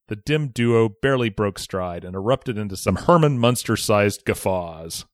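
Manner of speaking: measured, articulated read-aloud; story narration. A narrator's reading. Podcaster reading a listener's bullying story, narrating. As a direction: relish the wordy storytelling. Reads the story's second act.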